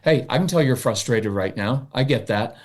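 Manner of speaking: even, grounded and calm; steady the child without sweetness; matter-of-fact. Shown as a demonstration. Parent modeling a matter-of-fact calm tone. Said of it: "use even matter-of-fact tone".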